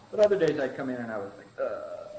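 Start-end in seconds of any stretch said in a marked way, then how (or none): 1.6-2.1 mock groan. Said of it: "doing one of these".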